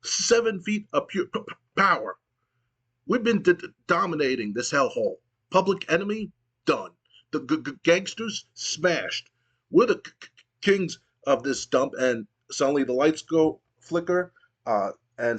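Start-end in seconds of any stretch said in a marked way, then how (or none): 0.0-11.9 stammered trash talk, repeating first sounds; a stuttering tough guy's promo, a bit higher; stuttering wrestler. Retold or imitated. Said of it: "And Bubba goes".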